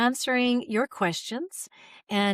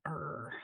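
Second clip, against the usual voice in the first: short, low, quiet growl; clamped-down grunt of held-back frustration; stifled low "err"; tense groan; 5 semitones lower, 14 dB quieter than usual. Shown as a demonstration. Imitates clamping down under criticism.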